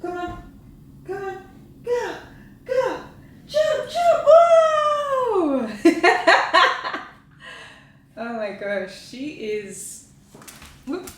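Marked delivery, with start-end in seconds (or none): 0.0-5.7 high-pitched coaxing building to a loud squeal; urging a pet. Real, not acted. 5.7-7.1 high burst of laughter; loud laugh. Real, not acted. Laughs after pet jumps.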